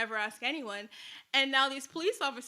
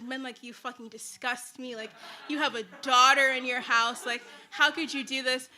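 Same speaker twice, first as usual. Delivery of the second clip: retold scream; 6 dB louder than usual. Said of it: "screaming at my dad".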